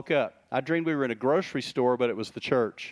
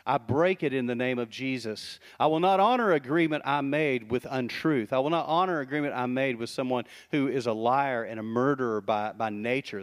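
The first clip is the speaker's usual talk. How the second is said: solemn declaration; 3 semitones lower than usual. Shown as a demonstration. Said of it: "This is where we say".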